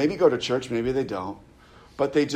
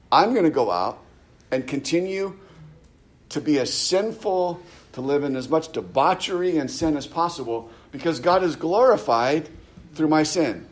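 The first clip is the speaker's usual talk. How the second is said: a hint of a smug preacher, pitched up; mock false teacher; 3 semitones higher than usual. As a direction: mimic the teacher bragging about sinning. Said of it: "who taught that".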